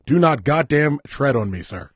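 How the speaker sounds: loud, slow mock-patriotic declaration; slow emphatic shout. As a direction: spell out each word like a proud patriot.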